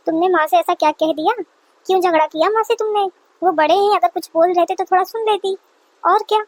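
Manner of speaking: hint of a patient son's voice. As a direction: play the son settling his upset mother down. Son scolds wife gently.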